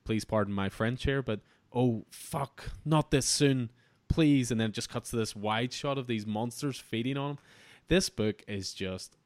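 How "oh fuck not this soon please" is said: higher and louder, a retold panicked begging; desperate plea. Doomed man begging the monsters, imitated desperate plea. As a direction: beg for your life as the monsters close in. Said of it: "this desperate plea from him".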